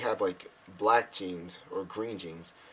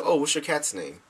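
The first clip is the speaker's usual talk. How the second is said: fake interest; 5 semitones higher, 4 dB louder than usual. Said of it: "Pretending to be interested".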